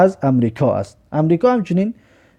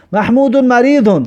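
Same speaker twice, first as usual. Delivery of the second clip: slow, raised, carefully spaced words; slow model reading; 7 semitones higher than usual. Shown as a demonstration. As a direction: sound out each word for the class. Teacher repeats Arabic example.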